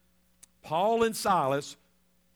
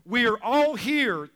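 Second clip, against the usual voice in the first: mild shout; 5 semitones higher, 7 dB louder than usual. Retold or imitated. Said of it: "But Paul shouted".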